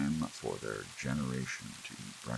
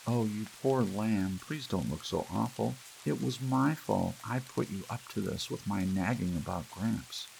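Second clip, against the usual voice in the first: tearful; 7 semitones higher than usual. Acted. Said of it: "Tears streamed over her cheeks".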